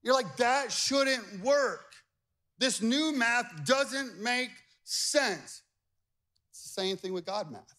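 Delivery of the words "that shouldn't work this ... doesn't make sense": slow, drawn-out incredulous complaint; doubting skeptic. Retold or imitated. Preacher voicing a doubter's slow complaint. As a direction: drag it out like a puzzled skeptic.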